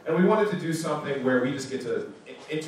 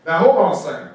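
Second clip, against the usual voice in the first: louder, higher, a firm stop-right-there; commanding hold-on, pushed up and loud; mock firm interjection; 4 semitones higher, 9 dB louder, faster than usual. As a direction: play the president calling the guy out. What they wanted Obama to say.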